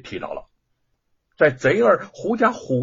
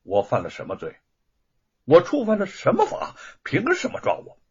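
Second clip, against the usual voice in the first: demanding indignantly; 3 semitones higher than usual. Acted. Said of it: "质问说".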